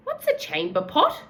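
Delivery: put-on a girl asking the old man about chamber pots; curious girl. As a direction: ask with wide-eyed curiosity. Chloe curious.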